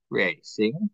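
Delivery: flat robotic voice asking "Racing?". Retold or imitated. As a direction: say "Racing?" like a robot, rising at the end. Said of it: "It's a very robotic voice going".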